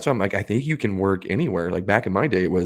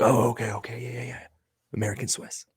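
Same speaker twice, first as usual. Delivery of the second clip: timid mumble; 4 semitones higher than usual. Retold or imitated. Anxious kid quoted.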